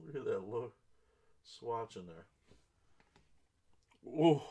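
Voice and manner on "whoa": loud, raised whoa of real amazement; amazed exclamation. Real, not acted. Breaker seeing a rare card, amazed. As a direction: burst out impressed.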